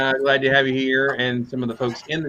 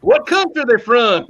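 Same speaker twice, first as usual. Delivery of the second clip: tag; 7 semitones higher than usual. Retold or imitated. Friend's puzzled reply in story.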